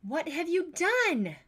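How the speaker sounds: put-on loud, slow, high demand at the child; angry father confronting the broken glass; in a rage. Father demands of daughter Tess, slow and furious. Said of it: "I asked in a rage".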